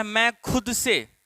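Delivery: drawn-out teaching phrase; slow dictation. Shown as a demonstration. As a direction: spell it out slowly for the class. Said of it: "अगर आपको बोलना है". (धीमी आवाज़ में लिखवाना)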